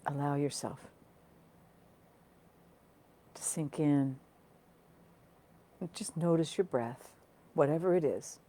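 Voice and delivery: calm, unhurried meditation guiding, with long pauses; guided meditation. Acted. Teacher settling online listeners into noticing their breath, guided meditation. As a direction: guide listeners gently inward, phrase by phrase.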